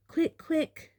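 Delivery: high, flustered hurrying; distracted hurry. A narrator's reading. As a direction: rush them, flustered. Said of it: "said Missus Weasley distractedly".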